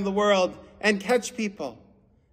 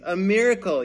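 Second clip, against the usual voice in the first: a touch louder, mild storybook yell; mock yell; 3 semitones higher, 5 dB louder than usual. Andrew yelling to the others in amazement, mild yell. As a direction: call it out in wonder, lightly. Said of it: "yelled Andrew".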